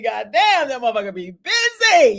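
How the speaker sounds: emphatic shout. Real, not acted. Emphatic rant about the devil.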